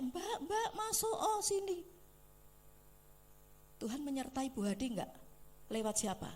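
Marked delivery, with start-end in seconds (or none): 0.0-1.8 higher, laughing mock call; imitating the widow calling the vendor in; retold calling out. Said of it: "Bu Hadinya teriak".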